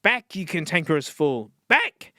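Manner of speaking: commanding Back, like a lion tamer; yelling at a lion. Pretend. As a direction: drive the beast back with your voice. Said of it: "sounds like I'm yelling at a lion".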